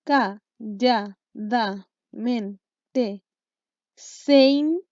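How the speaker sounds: "Calladamente" broken into beats, then "sein" as one long syllable. Shown as a demonstration. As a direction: chop it up for counting, landing hard on "sein". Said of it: "Vamos viendo".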